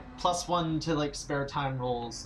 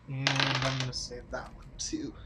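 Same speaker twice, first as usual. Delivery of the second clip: whispered aside. Real, not acted. Muttering aside while rolling dice.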